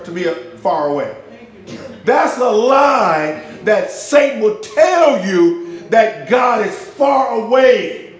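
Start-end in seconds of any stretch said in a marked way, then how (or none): 2.0-8.1 slow, loud preaching shout against the lie. Real, not acted. Preacher to his congregation, slow full-force shout. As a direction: drag each word out, shouting from the pulpit.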